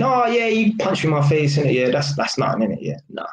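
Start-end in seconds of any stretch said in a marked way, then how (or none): 0.0-1.6 mock meek voice. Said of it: "White people, they just take disrespect".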